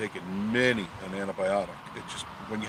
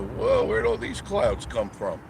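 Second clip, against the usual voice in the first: surprised; 6 dB louder, slower than usual. Retold or imitated. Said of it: "come outside and go".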